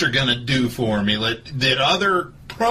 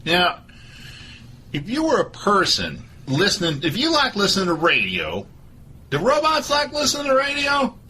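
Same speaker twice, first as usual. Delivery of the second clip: Doctor Phil voice; 5 semitones higher, 3 dB quieter than usual. Acted. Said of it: "This is Doctor Phil".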